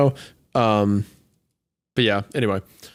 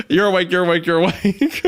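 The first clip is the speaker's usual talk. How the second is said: mock frantic shaking; 4 semitones higher than usual.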